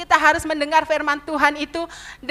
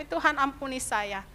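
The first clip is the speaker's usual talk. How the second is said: quiet plea for forgiveness; 6 dB quieter than usual. Retold or imitated. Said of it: "Saya sampai serekam".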